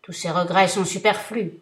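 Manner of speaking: thundering vengeful genie; terrible genie voice. Acted. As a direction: roar it down at him like a giant. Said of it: "s'écria-t-il".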